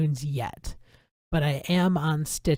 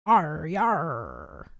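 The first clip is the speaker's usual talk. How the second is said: pirate growl. Pretend. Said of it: "Pirate voices".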